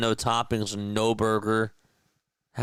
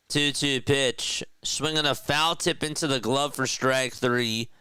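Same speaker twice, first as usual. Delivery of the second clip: play-by-play call; 3 semitones higher than usual. Acted. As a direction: call the count like a TV broadcaster. Live play-by-play of his game.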